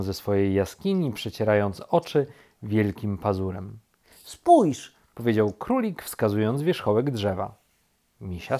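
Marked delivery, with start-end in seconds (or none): 4.1-4.9 high, loud single word; urgent command. A narrator's reading. Rabbit points bear to treetop, urgent and loud. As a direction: order a friend to look.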